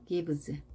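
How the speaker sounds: "Gives" with a soft buzzed z at the end; soft voiced ending. Shown as a demonstration. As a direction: let the end of "Gives" vibrate gently as z. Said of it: "부드럽게 발음이 되죠". ("Gives" 끝을 부드럽게 떨리는 즈로)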